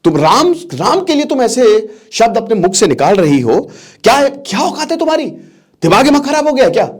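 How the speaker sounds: high-pitched angry scolding. Retold or imitated. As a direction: rebuke her, voice climbing high in anger. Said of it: "गुस्सा की कि". (गुस्से में ऊँची आवाज़ में डाँटना)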